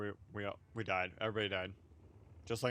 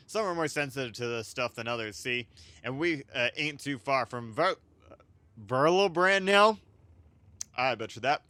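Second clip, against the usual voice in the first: voiced sailor; 4 dB louder than usual. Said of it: "I'm gonna try to voice over everybody".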